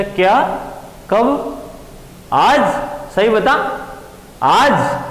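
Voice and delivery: delighted mother can't believe it; surprised mother. Acted. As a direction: ask in happy disbelief, voice climbing. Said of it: "उसने पूछा".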